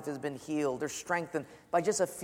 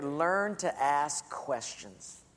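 slow dictation; 3 semitones lower, much slower than usual. Shown as a demonstration. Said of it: "write in your bullet there".

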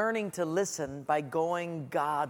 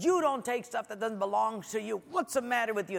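mildly raised parental reprimand; retold scolding; 3 semitones higher than usual. Dad retelling scolding his four-year-old, mild reprimand. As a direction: tell off a small child, lightly acted. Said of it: "scolded him and said".

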